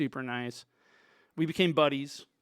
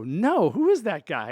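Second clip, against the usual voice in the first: slow, loud, higher acted demand; retold insistent question; 5 semitones higher, 8 dB louder than usual. Sound man presses Dave about stranger, insistent. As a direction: imitate yourself pressing for the answer.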